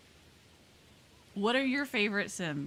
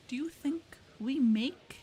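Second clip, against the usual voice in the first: hushed, slow, disbelieving question; incredulous whisper; 5 semitones higher than usual. Retold or imitated. Retail worker to a baffling customer, incredulous whisper.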